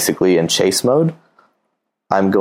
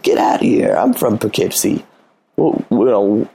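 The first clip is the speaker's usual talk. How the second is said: mock excited disbelief; 4 semitones higher than usual. Acting out excited flirting banter.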